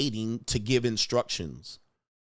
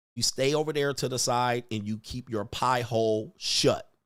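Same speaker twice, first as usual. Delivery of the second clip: usual speaking voice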